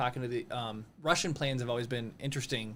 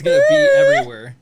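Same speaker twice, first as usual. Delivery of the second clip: very high, fast, loud squeal; squeaky high voice; 16 dB louder, faster than usual. Pretend. Squealed joke about glitter.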